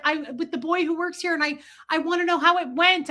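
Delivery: high-pitched, eager rush of curiosity; excited demand. Retold or imitated. Shopper asking the bagger about her date, excited. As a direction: press eagerly for the news. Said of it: "that's how much energy I had".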